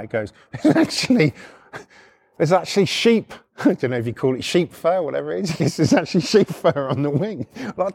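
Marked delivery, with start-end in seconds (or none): 0.6-3.3 high-pitched, imitating a giggling mate; imitated laughing fit. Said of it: "Tyrone's still laughing now". 5.8-7.5 imitated giggling. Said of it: "Tyrone's still laughing now".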